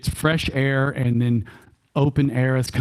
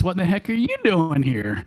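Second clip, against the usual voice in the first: higher-pitched, thick Texas twang; thick Texas accent; 5 semitones higher than usual. Acted. Healthy One getting curious about someone, in a thick Texas accent. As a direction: ask it in a broad Texas accent. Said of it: "with the thickest Texas accent I could".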